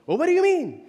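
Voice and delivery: mock outraged customer. Preacher mimicking angry guest to congregation, outraged squawk. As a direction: play the entitled guest losing it. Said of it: "He goes".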